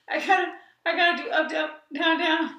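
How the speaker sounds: excited and fast. Pretend. Excited after mock moans.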